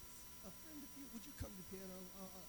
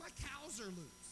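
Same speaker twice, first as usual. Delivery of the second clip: high, drawn-out mock holler at ordinary volume; half-voiced imitation of a yell, pitched up; imitated yelling; 6 semitones higher, slower than usual. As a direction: mimic a distressed caller, stretching the words. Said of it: "this lady calls me yelling".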